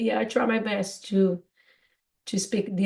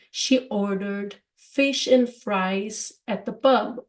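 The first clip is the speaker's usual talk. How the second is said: example sentence; slower than usual. Shown as a demonstration. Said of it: "in American English would be".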